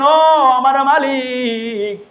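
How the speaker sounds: high, slow drawn-out invocation; calling on God. Acted. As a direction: draw out a plea to the Lord. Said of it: "মাওলাকে ডাক দিয়ে বলেন". (টানা সুরে মালিককে ডাকা)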